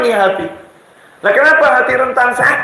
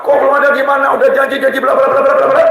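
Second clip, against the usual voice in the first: quick, higher scolding burst; mock angry wife; 5 semitones higher, much faster than usual. Preacher voicing a wife scolding her husband over money, mock angry. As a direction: rattle off her complaints like a wife losing patience. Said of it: "Jadi istrinya marah-marah".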